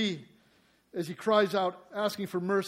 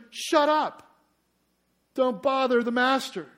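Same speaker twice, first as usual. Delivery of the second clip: loud, high mock scolding; crowd's rebuke; 6 semitones higher, 12 dB louder than usual. Crowd telling the blind man to hush, loud mock scolding. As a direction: snap it like an annoyed crowd. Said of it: "And many rebuked him".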